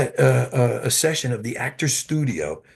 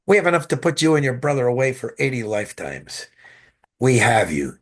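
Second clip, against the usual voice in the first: quoting the agent. Retold or imitated. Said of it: "He goes like that with his fist".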